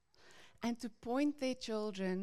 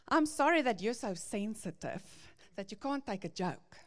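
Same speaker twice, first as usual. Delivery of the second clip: dismissive apology. Retold or imitated. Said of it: "But how does this sound?".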